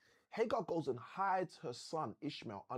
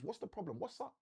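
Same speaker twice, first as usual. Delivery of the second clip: softer, almost confiding; hushed angel asking what's wrong; 4 semitones higher, 6 dB quieter than usual. Pretend. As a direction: lean in and ask it gently. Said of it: "Which basically means".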